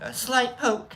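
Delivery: lightly voiced high nurse; nurse's warning. Nurse warns patient before the needle, high voice. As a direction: pitch it up as the nurse. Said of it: "she's like".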